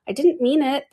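high-pitched apologetic plea; pleading. A narrator's reading. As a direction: plead to be forgiven. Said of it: "pleaded poor Alice".

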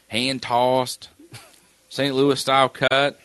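stretching the words out slowly; drawn-out words. Real, not acted. Telling pizza options, drawing out the words. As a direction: draw each word out long. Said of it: "like, extending words".

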